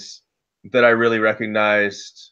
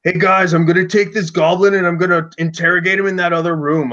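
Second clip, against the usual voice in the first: higher, louder sly in-character scheming; kid hamming up a role play; 6 semitones higher, 3 dB louder than usual. Retold or imitated. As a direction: slip into character and sell the lie to the party. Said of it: "he gets into the role play".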